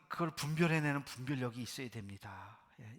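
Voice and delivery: usual speaking voice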